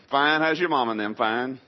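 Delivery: East Texas small-talk reply; East Texas accent. Acted. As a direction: act out a lightly exaggerated East Texas exchange. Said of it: "That's the way you address people".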